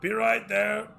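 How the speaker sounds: loud, high call from a back room. Acted. Shopkeeper calls from the back.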